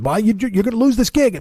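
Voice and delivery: high-pitched imitation of a worried warning; scolding caller. Acted argument with Lily.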